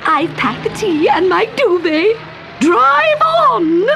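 put-on eager old aunt. Great aunt gleefully ordering Koshka to drive. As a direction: urge the driver on with glee.

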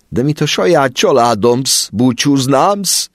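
big man weeping at parting; tearful sobbing. A narrator's reading. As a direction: cry through the words of farewell.

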